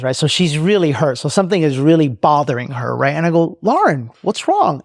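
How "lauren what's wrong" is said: higher, drawn-out question of concern. Retold or imitated. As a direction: re-enact checking on someone who is crying. Boss asks crying assistant.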